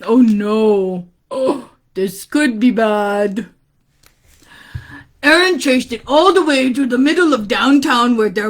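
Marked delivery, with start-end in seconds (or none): 0.0-3.5 low, slow, drawn-out dread; mock foreboding. Reader reacting to the story, low mock foreboding. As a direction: groan it with playful worry.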